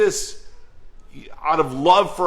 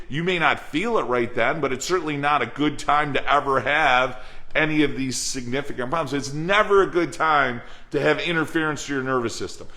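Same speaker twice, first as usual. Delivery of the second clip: usual speaking voice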